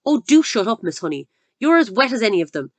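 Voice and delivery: contemptuous dismissal. Acted. Headmistress dismissing teacher.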